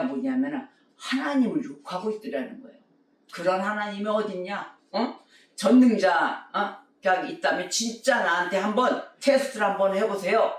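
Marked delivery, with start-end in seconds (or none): 3.3-10.5 retold yelling. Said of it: "그러면서 막 소리를 질러대는 거예요".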